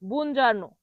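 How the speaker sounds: বুনজার্নো with "jar" for "jior"; wrong-way demo of বুনজার্নো, no "io" glide; common mispronunciation. Shown as a demonstration. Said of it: "কি বলে?".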